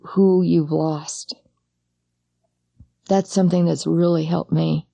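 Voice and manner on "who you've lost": slow, breathless whisper of grief; hushed whisper. Real, not acted. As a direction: let the words fall to a whisper. Remembering a lost child.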